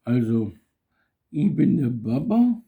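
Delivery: put-on drunk, slurring his words; sloppy drunk talk after the beer; blackout drunk. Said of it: "Bist du besoffen?".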